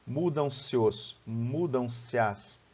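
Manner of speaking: slow demo, "se os" and "se as" each said as one syllable; one-syllable elision. Shown as a demonstration. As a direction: link "se" into "os" and "as", slowly. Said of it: "eu pronuncio isso como uma sílaba só".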